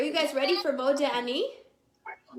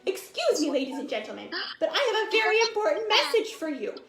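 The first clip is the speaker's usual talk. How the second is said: higher and playful, a cow puppet pleading; 4 semitones higher, faster than usual. Acted. Teacher voicing the cow puppet for the children, high and pleading. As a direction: make the puppet beg to be loved. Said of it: "and it's saying".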